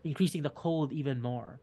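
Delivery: scene narration. A narrator's reading. DM describes the climb.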